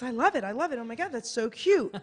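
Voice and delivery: retold gush of delight with a laugh; excited elderly lady. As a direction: imitate the thrilled old lady, laughing through it. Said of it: "smiling, laughing".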